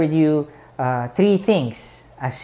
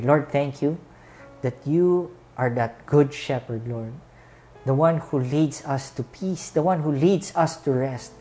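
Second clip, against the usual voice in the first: earnest pastor's closing prayer. Acted. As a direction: pray over the congregation with music.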